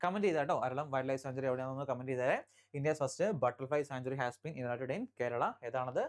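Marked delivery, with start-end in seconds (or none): 2.8-5.4 very slow, word by word headline read; slow dictation. Shown as a demonstration. Teacher dictating headline to exam students, very slow. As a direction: dictate it slowly so students can write. Reads headline again slowly.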